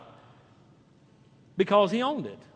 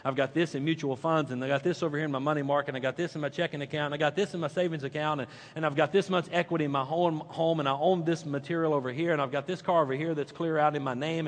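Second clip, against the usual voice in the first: mock money tally; 8 semitones lower, 8 dB quieter, faster than usual. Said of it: "You're already crunching the numbers".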